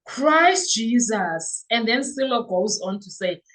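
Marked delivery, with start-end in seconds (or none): 0.0-1.6 slow, drawn-out Christ Jesus; disbelief. Real, not acted. Vlogger stunned by a comment, slow disbelieving exclamation. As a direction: let the disbelief stretch each word.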